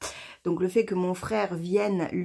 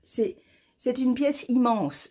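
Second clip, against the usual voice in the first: amazed; 5 semitones higher than usual. Real, not acted. Knitter showing viewers her big shawl, drawn out in wonder. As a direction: marvel at how big it is.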